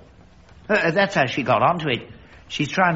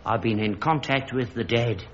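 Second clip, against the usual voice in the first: low, hushed announcement; solemn revelation; 7 semitones lower, 5 dB quieter than usual. Acted. Father confides contact with the dead, solemn. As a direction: drop low and soft, gravely.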